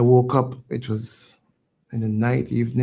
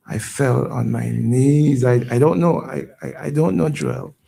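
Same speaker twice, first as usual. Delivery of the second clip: fighting back tears, louder; emotional; 4 dB louder than usual. Real, not acted. Host interview, recalling the fire loss, voice breaking. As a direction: voice rising and breaking as the memory hits.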